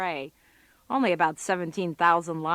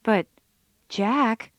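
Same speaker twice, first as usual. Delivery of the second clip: louder, pointed objection; exasperated retort; 7 dB louder than usual. Real, not acted. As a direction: call out his lame excuse. Picking apart a boyfriend's excuse.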